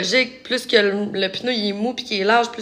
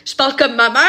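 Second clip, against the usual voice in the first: amazed realization; 3 semitones higher than usual. Retold or imitated. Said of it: "J'étais comme".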